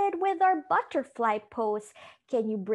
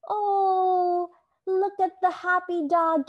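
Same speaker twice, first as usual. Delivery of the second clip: higher, louder delighted praise; excited praise; 6 semitones higher, 6 dB louder than usual. Real, not acted. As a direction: cheer on the happy dog. Praising kids in dog pose.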